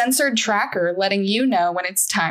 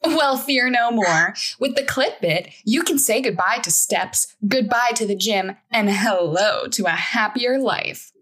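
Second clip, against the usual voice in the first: upbeat TV ad voice; infomercial announcer. Acted. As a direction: sell it like a late-night infomercial.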